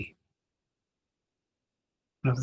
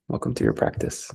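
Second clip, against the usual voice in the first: breathy hushed greeting, much softer; soft whispered welcome; 6 dB quieter, faster than usual. Real, not acted. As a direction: ease them in with a hushed welcome. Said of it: "repeats greeting, softer, unvoiced".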